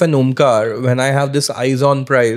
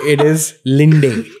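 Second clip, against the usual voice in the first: laughing; 2 semitones higher, much slower than usual. Real, not acted. Laughs at the punchline.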